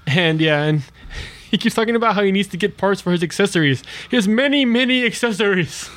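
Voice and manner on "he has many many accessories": lightly voiced toy robot; a hint of a boastful action figure; gruff tinny action figure.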